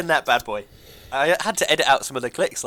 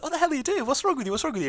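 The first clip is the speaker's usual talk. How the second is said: 1 retold startled giggling; 11 semitones higher, 4 dB quieter, much faster than usual. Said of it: "I was like".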